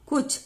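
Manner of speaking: कुछ with a brief, relaxed u; short vowel. Shown as a demonstration. Teacher showing short u matra, easy short कुछ. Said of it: "इसको आराम से बोलते हैं".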